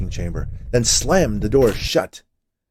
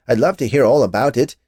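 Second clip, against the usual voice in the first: panicky; 4 semitones higher, 8 dB louder than usual. Acted. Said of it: "the panic rising in his voice".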